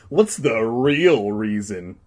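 slow, loud, insistent question; demanding. Acted. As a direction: press for the real answer, drawn out. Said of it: "Danny demanded".

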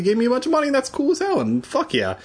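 high excited cheer. Real, not acted. Excited thanks.

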